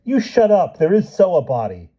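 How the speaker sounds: put-on high, loud furious child; boy yelling back at a guest; angry shout. A narrator's reading. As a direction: snap at the guest, outraged boy. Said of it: "Johnny spun angrily".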